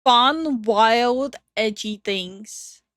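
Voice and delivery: drawn-out sarcastic repeat; slow, mocking parrot of his words; mocking echo. Co-host mockingly echoes the streamer.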